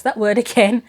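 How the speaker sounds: laughing through the words; amused laugh in the middle of the line; chuckles at herself repeating the word. Real, not acted.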